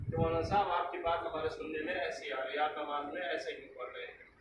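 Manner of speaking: soft, quick, polite query to the imam; respectful, soft correction. Pretend. Student politely tells the imam about his mistake, softly. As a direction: gently ask the maulana with respect. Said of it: "عزت و احترام کے ساتھ".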